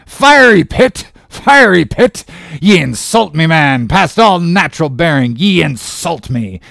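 loud, high, furious captain's tirade; thundering rage. A narrator's reading. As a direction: erupt in outrage and keep thundering. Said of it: "As he thundered out this".

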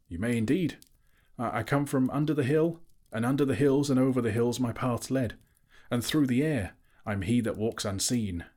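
proud riddling hobbit voice; riddling Bilbo. Acted. Bilbo answers the dragon.

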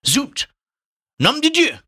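high, loud French cry; mock exclamation. A narrator's reading. Reader hamming up the French exclamations, high and loud. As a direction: fling it out theatrically.

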